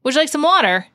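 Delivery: lightly British, polite lilt; a touch of an English host offering water; a hint of English inflection. Shown as a demonstration. Explaining picked-up accents, a light British inflection. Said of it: "when you're around an English person".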